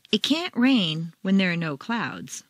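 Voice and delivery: can't punched; "can't" stressed clearly. Shown as a demonstration. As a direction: hit the word can't. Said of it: "Four, can't".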